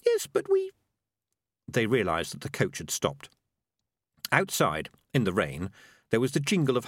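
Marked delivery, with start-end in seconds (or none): 0.1-0.7 tiny, very high-pitched creature; little voice. Acted. Peaches objecting to Morris's scheme, little high voice. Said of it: "It was a little voice".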